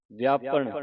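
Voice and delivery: ਵਿਆਪਣ said heavy, with retroflex final "n"; heavy final sound. Shown as a demonstration. Teacher instructs the class, ਵਿਆਪਣ said heavy. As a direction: give ਵਿਆਪਣ weight on "-pan". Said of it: "ਭਾਰਾ ਪੜ੍ਹਨਾ".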